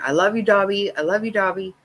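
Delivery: high, loud happy call; retold shouting. Grandson yelling from the back seat window, high happy shout. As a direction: call it out like a kid leaving in the car. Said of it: "He was always shouting out the window".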